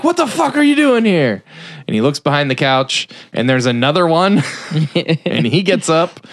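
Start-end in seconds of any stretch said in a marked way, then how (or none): 0.0-1.4 very high mock outrage; hammed-up, high-pitched confrontation; outraged. Shop owner to the man in boxers, mock outraged.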